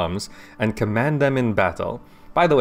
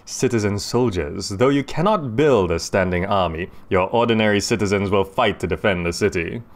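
narration voice; 2 semitones lower than usual. Shown as a demonstration. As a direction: read it like a game narrator, closer to the mic. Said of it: "the sort of narration voice".

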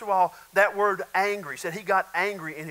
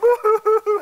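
high burst of laughter; 10 dB louder than usual. Real, not acted. Laughs at paid criers joke.

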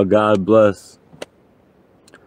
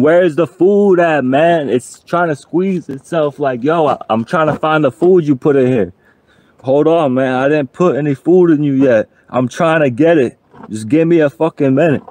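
voicing his stomach; 4 semitones higher than usual. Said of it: "it's saying".

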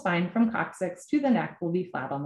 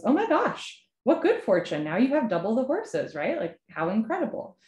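higher, impressed neighbor voice; acted excitement; 4 semitones higher than usual. Neighbor congratulates farmer on an extra horse, acted excitement. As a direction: gush congratulations, pitch leaping at the start.

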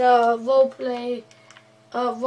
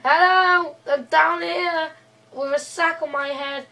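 calling out; 4 semitones higher, 4 dB louder than usual. Acted. Calling up from the ravine.

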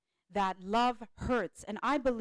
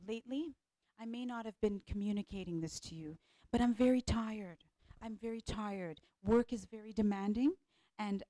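softly appreciative wife, gentle and patient; wife calmly asking her husband to help, tender; loving talk to husband; 4 dB quieter than usual. Shown as a demonstration. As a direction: ask for help kindly, full of appreciation. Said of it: "You're coming from a place of love".

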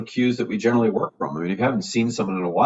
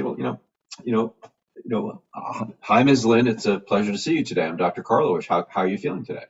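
normal adult tone. Shown as a demonstration. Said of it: "start from a normal adult tone".

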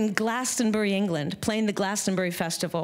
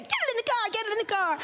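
high-pitched frantic mom yell; frantic, high urgent command; urgent hollering; 13 semitones higher, faster than usual. Retold or imitated. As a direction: holler like you're rushing someone into the getaway car. Mother urgently hustling daughter into car.

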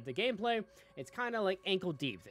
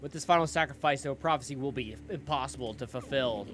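villain reading. Acted. Reads villain's dialogue aloud.

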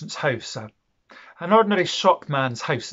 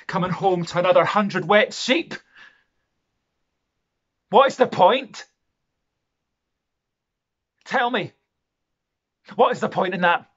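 raised, high and loud, exasperated demand; angry outburst; 6 semitones higher, 8 dB louder than usual. Acted. Rich man railing at Jamie over his wet sheep, angry. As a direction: throw the question out loud and high. Embittered speech, demanding what the point is.

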